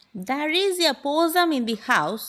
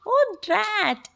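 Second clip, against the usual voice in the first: high-pitched mock yell; dad's hammed-up exclamation; storybook yell; 10 semitones higher than usual. A narrator's reading. Dad reacts to possum in kitchen, mock yell. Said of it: "yelled Dad".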